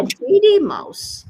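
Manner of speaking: "greedy" pitched high and drawn out; stress on GREEDY. Shown as a demonstration. Teacher shows that adjectives get emphasized, stress on GREEDY. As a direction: punch the adjective "greedy", slowly. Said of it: "I'm emphasizing on certain words".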